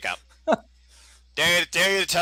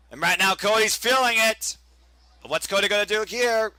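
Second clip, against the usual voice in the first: play-by-play. Acted. Live play-by-play of the match.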